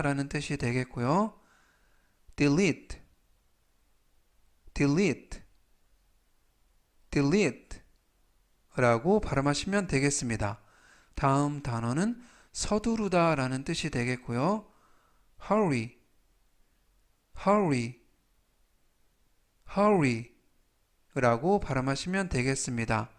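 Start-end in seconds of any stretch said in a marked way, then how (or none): 2.4-7.8 slow model reading. Shown as a demonstration. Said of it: "천천히 세 번씩 읽어드리고요". 15.5-20.3 slow model reading. Shown as a demonstration. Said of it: "천천히 세 번씩 읽어드리고요".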